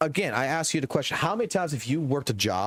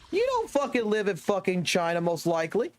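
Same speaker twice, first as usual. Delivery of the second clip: ordinary talk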